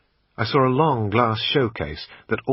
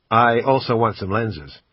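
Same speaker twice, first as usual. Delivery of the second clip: put-on a louder American accent, kept up while haggling; bad American accent; 4 dB louder than usual. Brit quizzing the shop assistant, bad American accent. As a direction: keep the clumsy American put-on going. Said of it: "in my usual bad American accent".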